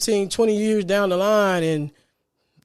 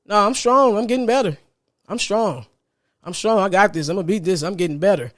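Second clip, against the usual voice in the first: firm, self-encouraging affirmation; determined pep talk to yourself; acted strong self-talk. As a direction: talk yourself up through sickness, starting emphatic. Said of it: "feel energetically the strength within you".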